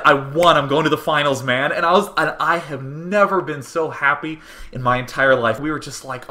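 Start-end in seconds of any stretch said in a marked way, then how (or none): 0.1-1.7 louder, thrilled quoting of his brother's good news; excited retelling. Retold or imitated. Brother on the phone announcing his win, excited. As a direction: relive the phone call with a victorious whoop. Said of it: "He said".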